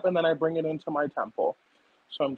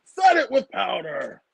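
slow, hammed-up ad read; mock commercial voice; 3 dB louder, slower than usual. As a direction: sell it like a lawnmower commercial. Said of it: "That sounds like one of, like, the commercials".

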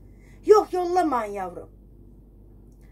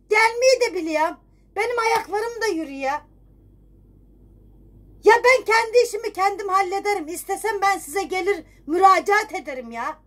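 exasperated, raised voice at the bank; indignant rant; 4 semitones higher than usual. Acted. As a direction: scold the caller who won't stop ringing.

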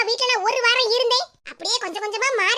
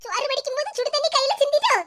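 higher, put-on caring voice to fool the daughter-in-law; fake concern; 5 semitones higher than usual. Mother-in-law faking concern for crying daughter-in-law, sweet put-on voice. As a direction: pretend to worry sweetly. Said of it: "எப்படி என் நடிப்பு?".

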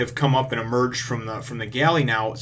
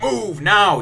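mock order; 8 semitones higher, 3 dB louder than usual. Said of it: "Sanji's like".

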